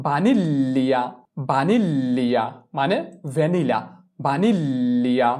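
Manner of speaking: বানিল্লিয়া with a long double l; Italian vaniglia. Shown as a demonstration. Teacher models বানিল্লিয়া for the class, slowly. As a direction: stretch the l in বানিল্লিয়া. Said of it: "জি এল ই বসাতে হবে".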